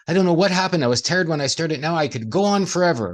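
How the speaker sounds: like someone refreshed after a walk in the forest; amazed and re-energised. Retold or imitated. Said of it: "you go".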